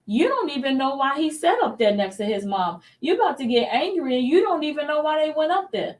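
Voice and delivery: high-pitched, worked-up inner voice; indignant self-talk. Retold or imitated. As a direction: retell getting worked up at yourself. Acted angry self-talk before calming herself.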